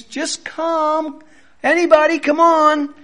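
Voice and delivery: high, light mock come-on-anybody call; breezy mocking call to anyone; casual invite. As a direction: toss off a careless open invitation.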